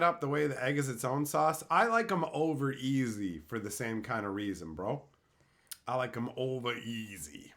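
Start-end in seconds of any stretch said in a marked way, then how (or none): 5.9-7.5 breathy low whisper. Pretend. Whispering to chat about his eggs. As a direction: murmur it close and low. Sultry whisper after bragging.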